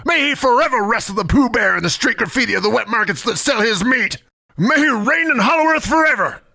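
mock sermon. Mock benediction, shouted.

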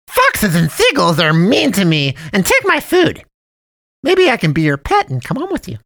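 guilt-trip the boy with mock sadness; sugary high cartoon cat, pleading; pleading cat man. A narrator's reading. Cat man asks to be pet.

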